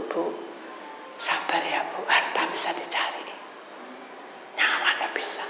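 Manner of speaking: soft, whispered reassurance; comforting whisper. Retold or imitated. Preacher hugging the grieving wife, whispering comfort. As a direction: gently comfort her in a hug. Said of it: "saya peluk Ibu".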